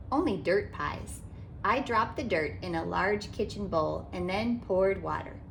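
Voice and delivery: put-on gentle, lively read-aloud for kids; storybook narration. A narrator's reading. Author reading a picture book to children, animated storytelling. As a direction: read it like storytime for little ones.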